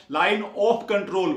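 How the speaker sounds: line of control said very slowly, of stressed; slow spelled-out term. Shown as a demonstration. Teacher contrasts LOC with LAC, very slow. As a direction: stretch line of control word by word. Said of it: "ओ से क्या है".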